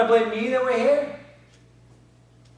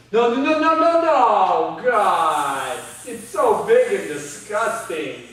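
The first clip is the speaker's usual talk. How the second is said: panicked cries at a snake; terrified, pleading no; phobic panic; 4 dB louder, much slower than usual. Acted. Snake brought into the cell.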